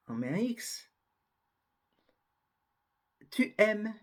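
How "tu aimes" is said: aimes ending on the M; silent final S. Shown as a demonstration. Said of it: "on ne prononce pas".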